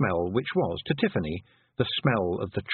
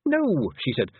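high, louder desperate plea; pleading girl; 11 semitones higher, 4 dB louder than usual. A narrator's reading. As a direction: beg for help in panic. Tiffany pleading.

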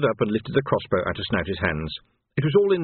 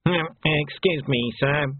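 slow, higher, nervous underling; hesitant, nervous interruption; 5 semitones higher, slower than usual. A narrator's reading. Snouty corrects his captain, nervously. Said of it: "said Snouty nervously".

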